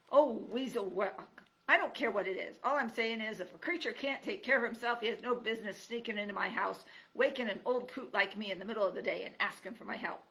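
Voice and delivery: put-on loud cranky old creature; grumpy old porcupine. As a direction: bark it like a grouchy old hermit.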